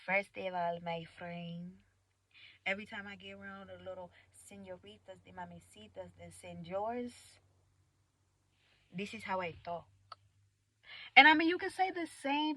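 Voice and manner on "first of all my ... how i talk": soft put-on Spanish-tinged accent; quiet mock accent. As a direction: play up a foreign accent, softly. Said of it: "so I talk like this".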